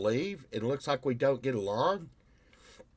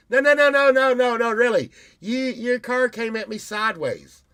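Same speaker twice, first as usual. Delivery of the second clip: mock protest; 10 semitones higher, 9 dB louder than usual. Retold car wreck quarrel.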